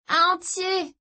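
high, delighted reveal; giddy sister. Acted. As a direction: announce it with glee. Sister proud answer.

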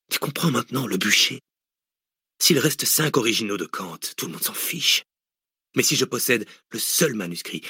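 theatrical lecture, building on key words; hint of a gloating mastermind; lightly voiced cynical villain. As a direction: savour the theory before a captive. Villain lectures his captive.

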